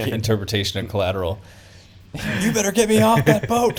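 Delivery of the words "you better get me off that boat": much higher, exaggerated trailer voice; movie trailer voice. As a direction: ham it up like a movie trailer narrator. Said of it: "Kramer's movie phone, like, interpretation".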